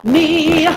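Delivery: high, slow "me" ending in "ya"; shadow vowel. Shown as a demonstration. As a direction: add a "ya" after "me". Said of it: "the ya, me".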